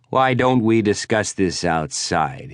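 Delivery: slow, lightly voiced Yooper threat; a hint of a drunk big man's menace; menacing rival. Prudell calling McKnight out to fight, lightly voiced threat.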